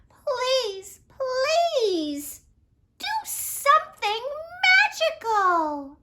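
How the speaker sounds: high, tearful begging; crying plea. Acted. Princess begs the old wizard for help, tearful high plea. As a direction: sob out the plea, voice climbing.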